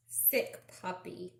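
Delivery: sick puppy whispered softly. Acted. Showing kids a sick puppy, whispered softly. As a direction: breathe it, pitying.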